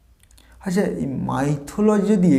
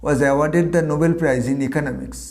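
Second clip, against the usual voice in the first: slow dictation; much slower than usual. Shown as a demonstration. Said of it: "Abhijit Banerjee".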